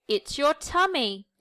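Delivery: a touch of kangaroo excitement; excited. Acted. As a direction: tell him with delight. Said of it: "he said excitedly".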